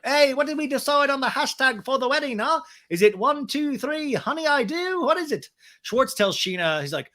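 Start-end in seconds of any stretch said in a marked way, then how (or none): 0.0-5.5 high, put-on questioning voice; Brock impression. Groom quizzing everyone on the wedding hashtag, mock impression. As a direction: pitch it well up and keep prodding. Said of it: "is like".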